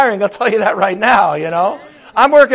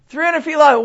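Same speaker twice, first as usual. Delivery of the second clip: higher echo of "three hundred feet long" in disbelief; Noah, incredulous; 6 semitones higher than usual. Acted. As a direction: Noah repeating it back, stunned. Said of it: "And Noah says to God".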